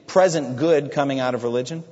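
preacher voicing the wicked man's contempt; scornful wicked man. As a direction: scoff at the poor Christian. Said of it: "As for the wicked man".

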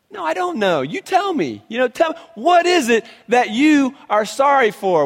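demanding wife. Pretend. Wife demanding to know what he is sorry for, insistent. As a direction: press him to name it.

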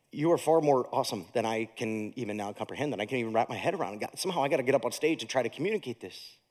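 low, soft retold prayer, overwhelmed; quiet, quick words of awe to God; hushed awed prayer. Preacher retelling his overwhelmed prayer to God, hushed and low.

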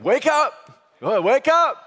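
high loud wake-up call to the neighbour; shouted wake up. Shown as a demonstration. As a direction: shout it at the person beside you. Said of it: "Look at the person next to you and get like".

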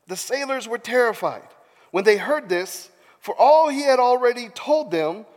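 animated Bible storytelling; theatrical narrator; dramatic scripture reading. A narrator's reading. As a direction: read it out with measured emphasis. Reads scripture aloud dramatically.

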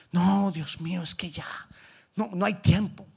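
hushed, halting, defeated reply; half-whispered giving up; discouraged doubter. Acted. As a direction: lightly act a soft, despairing plea. Voicing a discouraged doubter's answer to God.

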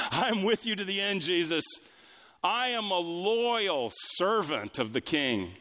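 high, cocksure mock pledge; boastful. Peter pledging himself to Jesus, boastful and high-pitched. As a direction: proclaim it grandly, with arrogant certainty. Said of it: "Peter boastfully, arrogantly, confidently, assuredly says".

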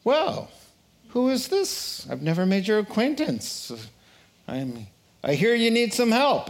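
a high, gently amused divine voice; voice of God. Acted. God answering the atheist's cry, lightly voiced. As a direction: play God answering from the sky. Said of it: "And the voice said".

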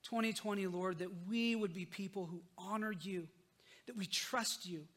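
earnest spoken prayer. Acted. Pastor leading the church in a closing prayer, earnestly. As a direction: pray it sincerely to God.

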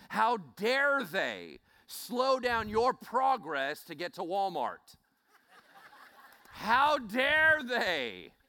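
slow, loud, indignant declaiming; mock outrage. Preacher mocking drivers held up for Walmart, mock outrage. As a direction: overblown indignation, drawn out and high.

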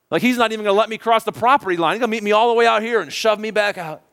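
a touch of acted panic; dismayed worry. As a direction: fret aloud, pitch lifted. Imagining the returning son's dread.

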